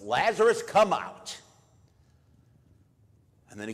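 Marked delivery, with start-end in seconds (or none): 0.0-1.4 much higher, louder command calling into the tomb; ringing high call to the dead man. Retold or imitated. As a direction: call him out of the grave, full voice. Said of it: "cried out in a loud voice".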